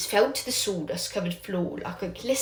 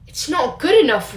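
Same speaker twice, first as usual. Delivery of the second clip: higher, louder stern rebuke; 7 semitones higher, 5 dB louder than usual. Acted. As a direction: cut him off hard. Angry teacher to Remus.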